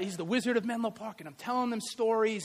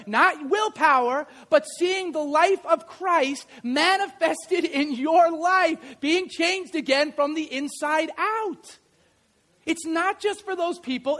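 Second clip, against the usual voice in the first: full-force preaching; 5 semitones higher, 3 dB louder than usual. Acted. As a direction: press each word on the church.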